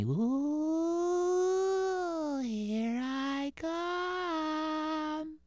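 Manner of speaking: high, soft, slow ghostly moan; spooky ghost voice. Acted.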